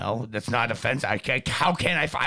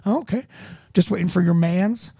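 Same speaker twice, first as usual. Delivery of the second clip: mock cop talking slang. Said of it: "He's like".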